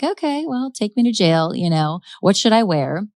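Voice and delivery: imitating a breezy, unbothered suspect; nonchalant. Retelling Wanda's reaction to arrest, lightly nonchalant. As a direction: toss it off with mock indifference. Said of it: "sort of nonchalant".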